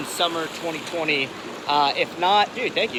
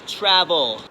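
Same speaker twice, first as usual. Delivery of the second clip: emphatic command; 3 semitones higher, 5 dB louder, much slower than usual. Real, not acted. Emphatic call to travel.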